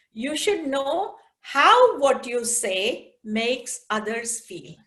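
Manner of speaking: slow, weighted repeat; repeating the moral slowly; slow repeated line. Shown as a demonstration.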